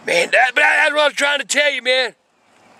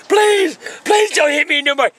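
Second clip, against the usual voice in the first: mock pleading; 4 semitones higher than usual. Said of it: "I was crying".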